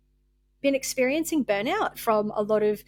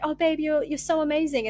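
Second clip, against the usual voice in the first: gushing friend; 6 semitones higher than usual. Retold or imitated. Friend praising her, lightly mocked gushing. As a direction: play the friend heaping on compliments. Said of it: "someone will be like".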